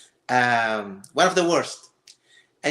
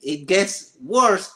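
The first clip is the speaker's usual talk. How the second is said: ominous warning; 4 semitones higher, 4 dB louder, much slower than usual. Real, not acted. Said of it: "buckle up because it's gonna be a wild ride".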